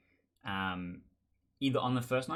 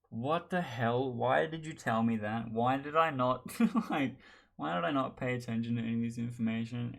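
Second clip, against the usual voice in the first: mock meltdown; 2 semitones higher than usual. Investigator realising he missed the Baron, mock meltdown. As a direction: imitate someone in exasperated meltdown. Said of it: "big brain meltdown moment".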